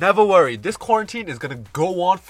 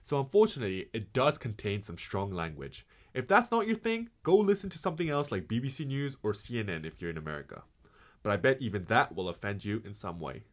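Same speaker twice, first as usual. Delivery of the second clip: low, soft announcer read; podcast disclaimer; 8 semitones lower, 10 dB quieter than usual. Acted. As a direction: read the warning in a subdued low voice.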